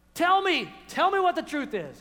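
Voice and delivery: king craving the truth; yearning plea. Acted. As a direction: plead to hear it.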